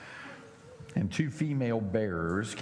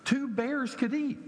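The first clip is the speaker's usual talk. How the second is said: teacher's question; 7 semitones higher than usual. Retold or imitated. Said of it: "Bible class teacher who was telling the story".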